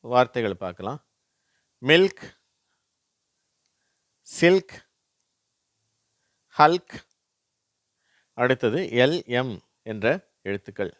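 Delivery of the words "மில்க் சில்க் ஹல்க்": "மில்க், சில்க், ஹல்க்" high and loud, ending in lk; LK sound demo. Shown as a demonstration. Teacher reading LK examples, "மில்க், சில்க், ஹல்க்" high, loud and separate. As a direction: project "மில்க், சில்க், ஹல்க்" one by one, both consonants sounded. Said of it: "இல்க் அப்படிங்கிற உச்சரிப்பு வருது".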